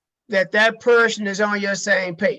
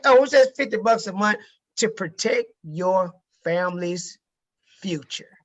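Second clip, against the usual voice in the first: offhand price. Shown as a demonstration. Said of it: "things I really don't care about".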